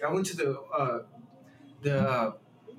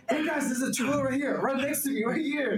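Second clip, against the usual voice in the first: higher, alerting friends to a sighting; excited call-out; 6 semitones higher than usual. Retold or imitated. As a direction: re-enact an excited heads-up, pitched up. Retells calling out to friends.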